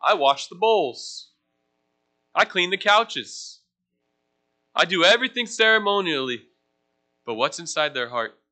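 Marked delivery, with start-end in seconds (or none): 0.0-6.5 mock proud Pharisee. Mocking the proud Pharisees to the youth group, smug boasting. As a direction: brag like a self-righteous Pharisee.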